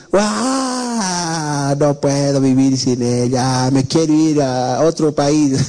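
mock sob, slow and drawn out; lamento de despecho. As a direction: play the heartbroken boy, wailing a little. Joven despechado que quiere irse. (lamento exagerado del joven despechado)

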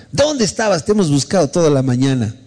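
high exclaimed question, then easing down; lightly acted scolding of someone who was missing; retold reproachful lady. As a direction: exclaim it like an exasperated neighbour.

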